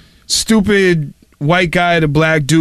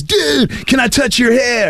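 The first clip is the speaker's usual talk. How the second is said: clueless guy; 6 semitones higher, slower than usual. Retold or imitated. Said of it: "walks up to Sonny Black and says".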